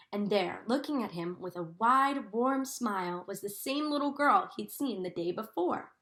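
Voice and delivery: gentle storybook reading for a class; reading to children. A narrator's reading. Teacher reading Corduroy to her class, in a storybook voice. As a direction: read the story to the children, savouring each sight. Teacher reads picture book aloud.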